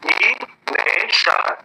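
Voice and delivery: एग्जामिनेशन drawn out in long separate syllables; slow. Shown as a demonstration. Teacher repeating it for learners to count, slowly syllable by syllable. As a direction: hold each sound of एग्जामिनेशन, pausing between. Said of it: "slowly आप try करो".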